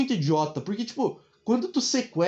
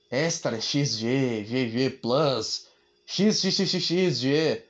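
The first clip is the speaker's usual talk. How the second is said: slow listing; 5 semitones lower, much slower than usual. Acted. Listing absurd shirt sizes.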